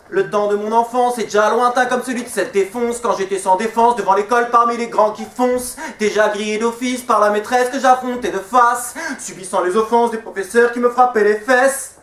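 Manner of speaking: verse run on without pauses; driving slam recital. Acted. Slammer returns to his schooldays verse, driving recital. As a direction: push straight through, line into line.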